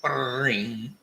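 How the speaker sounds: vocal imitation of an old phone bell; mock telephone ring. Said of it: "the old retro phone rings".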